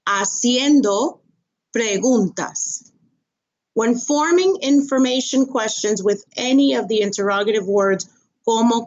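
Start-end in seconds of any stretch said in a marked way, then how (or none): 0.1-2.9 Haciendo said with no H sound, asjendo; silent H. Shown as a demonstration. Teacher modelling Haciendo for students, slow and careful. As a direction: drop the H in Haciendo. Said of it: "Remember, the H is silent".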